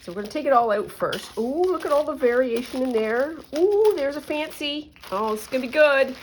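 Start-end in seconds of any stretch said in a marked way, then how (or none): 1.4-6.1 delighted. Real, not acted. Delighted at fancy buttons.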